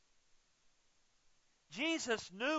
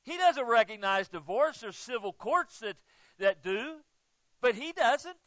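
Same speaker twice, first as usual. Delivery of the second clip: louder, insistent pulpit emphasis; hammering the point home to the congregation; emphatic preaching; 3 semitones higher, 5 dB louder than usual. Acted. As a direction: drive each point home hard.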